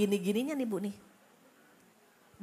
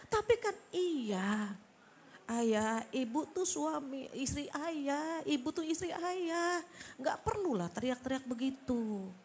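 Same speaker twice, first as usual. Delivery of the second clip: gentle reminder; 3 semitones higher than usual. Retold or imitated. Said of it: "dengan suara yang lembut".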